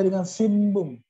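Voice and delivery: "sinbung" said as sim-mbung; double m. Shown as a demonstration. Teacher explains double M, "sinbung" sounded with a long m. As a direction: linger on an m in "sinbung". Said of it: "double M".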